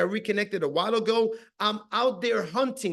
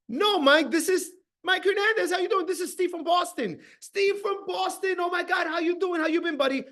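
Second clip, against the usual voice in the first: high-pitched, gushing phone reunion; acted delighted recognition; 8 semitones higher than usual. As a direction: play an old acquaintance thrilled by the call. Acting out delighted Steve on phone.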